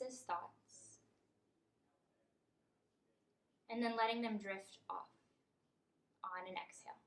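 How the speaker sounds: measured meditation guide, long pauses between phrases; guided meditation. Acted. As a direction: lead them gently through each breath, leaving room. Leads a breathing meditation.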